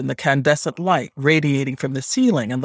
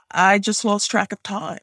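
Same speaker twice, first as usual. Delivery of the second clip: higher-pitched, hesitant excuse; apologetic admission; meek excuse; 5 semitones higher than usual. Acted. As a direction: offer a lame explanation to a superior. Narrator's excuse, repeated by grandmother.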